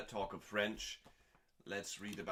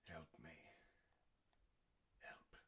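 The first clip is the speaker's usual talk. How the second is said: mock plea; 3 semitones lower, 20 dB quieter, much faster than usual. Real, not acted. Deadpan aside before reading.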